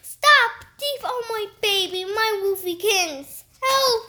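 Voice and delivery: high, loud panicked shrieks; shrieking for help. Acted. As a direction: scream after the thief, panicking.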